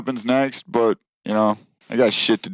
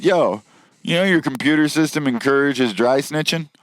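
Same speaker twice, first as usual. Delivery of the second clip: raised, higher mock confrontation; telling off the bosses; 6 semitones higher than usual. To his bosses about snitching, higher indignant call-out. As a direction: call the bosses out, half joking. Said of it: "looked right at our bosses and said".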